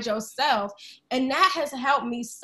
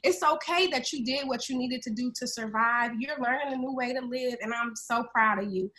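a hint of soft, gentle inner parent, softer; loving parent voice; 4 dB quieter than usual. Woman voicing her inner loving parent, gentle and softer. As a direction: reassure yourself like a loving parent would. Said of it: "I'm cultivating this voice that's like".

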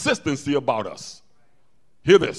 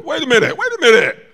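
panicked bird; 8 semitones higher, 8 dB louder than usual. Retold or imitated. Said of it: "The bird said".

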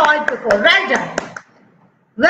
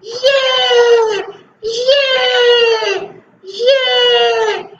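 excited yay; 5 semitones higher, much slower than usual. Shown as a demonstration. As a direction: show the kids what excited sounds like. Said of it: "Show me your excited face".

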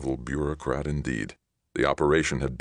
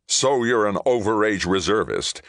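high, louder, scornful retort; grunted retort; 7 semitones higher, 5 dB louder than usual. A narrator's reading. Ray dismisses Johnny's war service, grunting. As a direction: throw it back dismissively. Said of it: "Ray grunted".

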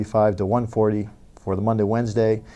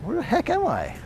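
lost and panicking; 12 semitones higher, 4 dB quieter than usual. Acted.

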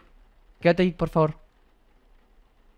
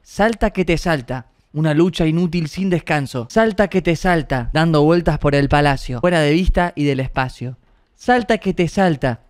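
sing-song storybook reading. A narrator's reading. Reads the storybook.

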